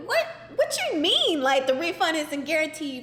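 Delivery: baffled outrage at the clerk; incredulous. Retold or imitated. Outraged at the refund policy.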